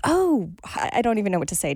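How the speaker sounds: a high, breathless oh; starstruck gasp. Retold or imitated. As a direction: voice jumps up, awestruck. Starstruck at meeting a pop star.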